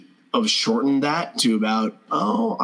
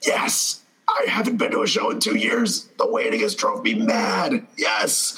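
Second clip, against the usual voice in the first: excited shout; 10 semitones higher than usual. Retold or imitated. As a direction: cheer it out like a fan finally back at a show. Acting excited Eddie at show.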